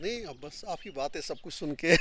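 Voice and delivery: amused laughter. Real, not acted. Guest laughing at the interviewer's introduction, amused. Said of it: "आप क्यों हंस रहे हैं?".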